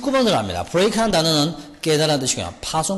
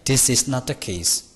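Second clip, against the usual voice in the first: very slow, careful English reading; teacher reading the example sentence very slowly; slow dictation; much slower than usual. Shown as a demonstration. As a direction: read each word slowly for the class. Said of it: "맨 뒤에 중간에".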